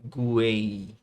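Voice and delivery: "Guei" stretched out alone, every vowel sounded; isolated syllable. Shown as a demonstration. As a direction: draw out "Guei" for learners. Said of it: "perceber o som das três vogais".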